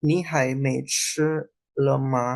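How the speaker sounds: slow, careful Mandarin read-out; slow teacher demo in Mandarin. Shown as a demonstration. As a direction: spell the Mandarin out word by word. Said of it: "Saya, eh".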